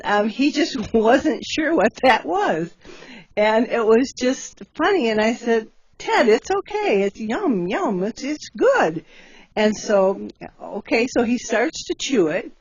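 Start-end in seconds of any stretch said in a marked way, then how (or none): 6.0-9.0 coaxing the bear. Retold or imitated. Coaxing bear to eat cherry.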